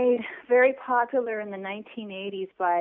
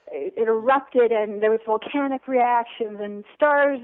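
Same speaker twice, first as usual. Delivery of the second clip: mock romance novel; 4 dB louder, slower than usual. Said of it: "romance novels, and we read as young ladies".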